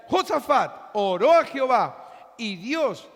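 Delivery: usual speaking voice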